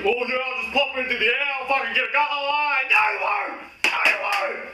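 squeaky mock voice. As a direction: squeal it like a cartoon. Mock commentary squabble, high voice.

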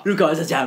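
"じゃ、じゃあ" doubled as a teasing copy of a stutter; mimicked stumble. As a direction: laughingly imitate the tripped "じゃ、じゃあ". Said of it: "ちょっと噛みながら言うな".

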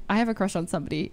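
teasing echo of a crush confession; fast mocking echo. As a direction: rattle his words back quickly. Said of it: "I was like".

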